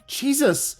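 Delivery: shouted. Acted. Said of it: "Claire shouted".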